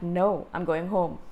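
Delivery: blunt. Retold or imitated. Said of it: "And I said it like that".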